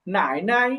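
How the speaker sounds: first "নাই" dips low, second "নাই" light and rising back; third tone then neutral. Shown as a demonstration. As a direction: dip on the first "নাই", release into a toneless "নাই". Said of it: "third tone".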